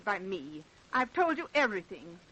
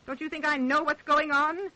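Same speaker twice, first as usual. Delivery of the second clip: rising outburst; 3 semitones higher, 6 dB louder than usual. Acted. Mother feels accused of murder.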